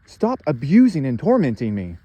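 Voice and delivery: imitating a beaten man's pleading. A beaten man begs his tormentors to stop, in high frantic pleading. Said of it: "And he's saying".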